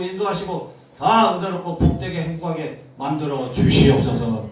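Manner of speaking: fervent pastor's prayer, rising in force; a pastor leading the congregation in prayer, fervent. Acted. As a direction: pray over the people with growing fervor.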